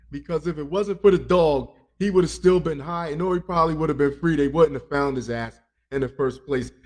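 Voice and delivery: loud rant. Real, not acted. Ranting about the Florida man.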